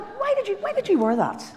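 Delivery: high, laughing teasing scold; lightly mocking why; mock exasperation. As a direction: tease her with a laugh. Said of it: "I'm going".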